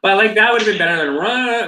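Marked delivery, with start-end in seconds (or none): 1.2-1.6 high playful rah; mock whale roar. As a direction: bellow like a whale, hammed-up. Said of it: "her whale sounds".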